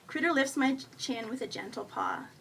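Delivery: plain reading voice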